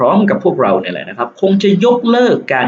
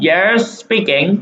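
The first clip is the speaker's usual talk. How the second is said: slow answer read; 3 semitones higher, much slower than usual. Shown as a demonstration. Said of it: "ตอบนี่เลยครับ".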